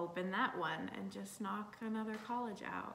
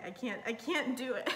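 nervous. Real, not acted. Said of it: "I'm so scared".

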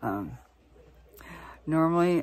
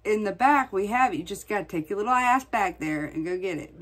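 higher, louder, mock-sassy coworker voice; 4 semitones higher, 4 dB louder than usual. Mimicking cashiers brushing off customers, mock sassy. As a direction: imitate lazy cashiers with mild scorn. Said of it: "they'll say".

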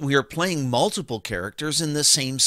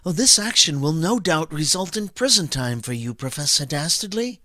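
lightly voiced proper doctor; restrained, formal character voice; Doctor DeSoto. Shown as a demonstration. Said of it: "Doctor DeSoto would say it more like".

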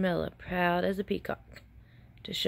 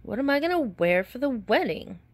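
sadly; 5 semitones higher, 3 dB louder than usual. Acted. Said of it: "said sadly".

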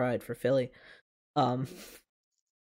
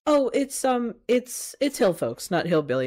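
gentle correction; 8 semitones higher, 4 dB louder than usual. Retold or imitated. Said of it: "she just very gently was like".

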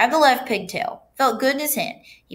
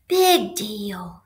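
drawn-out, dismissive little creature; pigtail voice. A narrator's reading. Pigtail shrugging off the boy's excuse, dismissive. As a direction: brush off his worry, stretching the words. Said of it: "said the pigtail".

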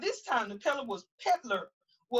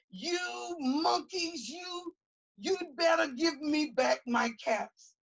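slow, drawn-out angry warning; hammed-up threat, stretched slow; quite angry; 2 semitones higher, slower than usual. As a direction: peddler warns the monkeys, mild mock anger. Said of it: "Now he felt quite angry".

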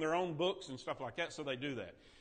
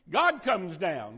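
slow emphatic repeat; 5 dB louder, much slower than usual. Acted. Repeats the dramatic line.

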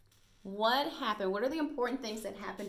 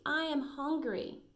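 higher, slow puppy voice; little puppy; 6 semitones higher, slower than usual. Acted. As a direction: lightly voice a hungry puppy. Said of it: "said the little puppy".

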